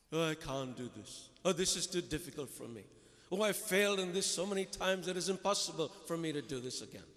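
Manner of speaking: low, moaning mock complaint; whiny complaining. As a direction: sigh it out like a defeated grumbler. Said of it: "are negative people".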